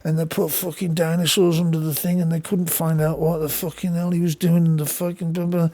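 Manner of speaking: soft stoned rambling, imitated; lightly voiced stoner, slightly subdued. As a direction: ramble on like someone stoned, trailing into blah. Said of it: "He would just get stoned and start talking".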